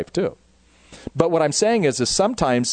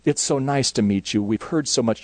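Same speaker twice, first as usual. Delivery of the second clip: put-on Southern accent. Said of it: "beautiful Southern accent".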